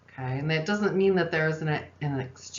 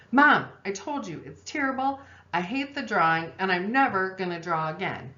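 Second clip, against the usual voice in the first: put-on whiny child; 3 semitones higher than usual. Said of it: "child protesting to mom".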